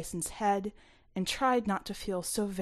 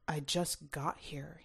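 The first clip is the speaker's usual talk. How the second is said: Tyson's voice; 3 semitones lower, 6 dB quieter, slower than usual. A narrator's reading. Tyson, defiant and low.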